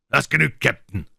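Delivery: high, loud, merry shout; cheerful call. A narrator's reading. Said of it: "rief Long John fröhlich".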